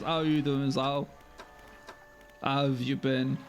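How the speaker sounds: lightly put-on Tweezal accent. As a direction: greet in a slight Tweezal accent. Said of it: "I'm doing Tweezal accent".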